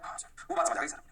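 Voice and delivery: student reply. Acted. Teacher answering for students who got it, lightly voiced student reply. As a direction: answer low as an agreeing pupil.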